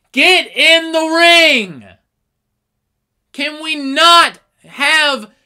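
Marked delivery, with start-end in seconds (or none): 0.1-1.8 very high, very loud, very slow shout. Retelling watching a match at home: imitating own shouting at the TV. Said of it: "I was just shouting at my T V".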